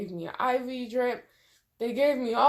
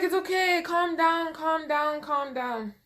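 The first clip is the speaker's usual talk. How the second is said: soothing mom; 6 semitones higher than usual. Retold or imitated. Mom soothing her struggling daughter, high and soothing. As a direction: coax her to calm, easing off. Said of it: "She's like".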